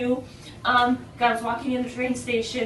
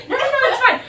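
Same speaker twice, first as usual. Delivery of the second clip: laughing dismissal; 11 semitones higher, 9 dB louder, faster than usual. Retold or imitated.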